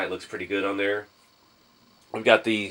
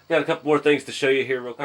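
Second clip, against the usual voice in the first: stuffy nose after sneezing; talking through the nose; nasal voice; 4 semitones higher, 4 dB louder, faster than usual. Real, not acted. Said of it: "I sound like I'm talking through my nose".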